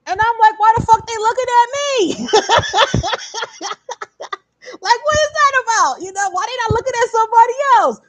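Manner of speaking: high, loud, fast indignant disbelief; why is everyone staring at me, mock outraged; incredulous outrage. Recalling the bar staring at her, high incredulous. Indignant retold reaction, laughing shout.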